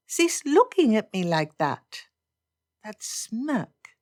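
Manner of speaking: lightly voiced indignant Elizabeth; Elizabeth exasperated. Elizabeth doubts that Darcy has changed, mildly exasperated.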